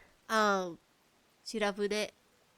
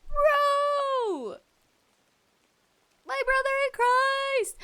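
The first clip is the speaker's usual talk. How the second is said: high, far-pitched mock outrage; exasperated plea; 14 semitones higher, 3 dB louder, much slower than usual. To writer Ryukishi, a high exasperated mock plea. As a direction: cry out at him in disbelief. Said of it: "I'm like".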